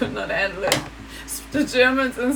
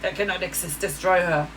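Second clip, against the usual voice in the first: mocking triggered Germans; 2 semitones lower than usual. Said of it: "Always like, trigger".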